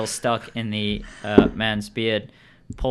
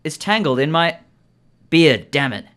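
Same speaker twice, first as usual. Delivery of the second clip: high, loud character voice for the man; indignant bearded man; 6 semitones higher, 7 dB louder than usual. Acted. Game master voices the man with the tangled beard, indignant. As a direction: exclaim it loudly in a raised, put-on voice. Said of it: "The man says".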